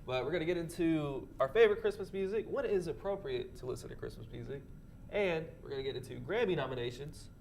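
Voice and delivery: blocked nose, a bit nasal; stuffy nose. Real, not acted. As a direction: talk through a stuffy cold. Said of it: "I'm a little stuffy".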